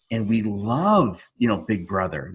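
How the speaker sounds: slow, drawn-out mock praise; super sarcastic. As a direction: sneer the love for Big Brother. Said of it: "super sarcastic".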